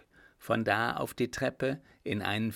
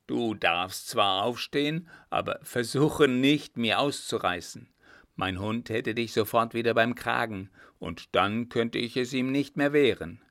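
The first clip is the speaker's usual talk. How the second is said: louder, mildly triumphant guard; coachman playing watchman; 5 dB louder than usual. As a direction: put on a show of catching a prowler. Coachman's staged speech to captive. (Kutscher als auftrumpfender Wächter)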